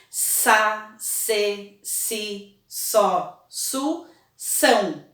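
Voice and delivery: Sa, se, si, só, su, são each said alone and clearly; teacher reciting the S syllable family; syllable drill. Shown as a demonstration. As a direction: tick off each S syllable one at a time. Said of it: "Vamos lembrar a família silábica do S?".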